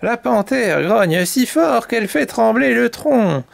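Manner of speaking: animated, expressive storyteller; children's story narration. A narrator's reading. Mamie Poule tells chicks the canary's tale, lively narration. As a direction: tell it vividly to little listeners.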